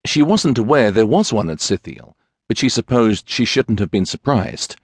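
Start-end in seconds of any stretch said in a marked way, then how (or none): none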